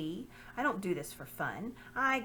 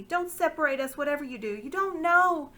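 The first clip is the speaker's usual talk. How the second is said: high, louder desperate plea, breaking off; pleading girl; 9 semitones higher, 9 dB louder than usual. Acted. Lucy pleading with the lord, high and desperate. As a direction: cry out to keep them together.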